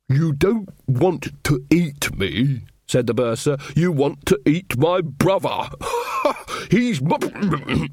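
slow, giggly silly voice; lightly voiced tipsy giggles; giggling bursar. A narrator's reading.

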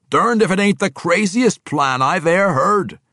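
loud, high, boisterous dwarf bellow; a hearty dwarf calling out in delight; gruff dwarf. Acted. Boisterous dwarf Athrogate greeting his king, loud and gleeful.

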